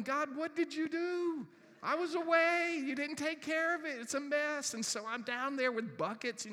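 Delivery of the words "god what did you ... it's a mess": raised, higher, accusing God; indignant rant at God; complaining to God. Retold or imitated. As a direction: scold God loudly, fed up.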